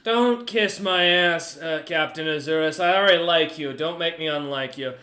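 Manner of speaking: loud, high-pitched haughty merchant; Goose the merchant. Acted. Merchant captain lecturing the party, loud and haughty. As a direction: lord it over them as the proud merchant.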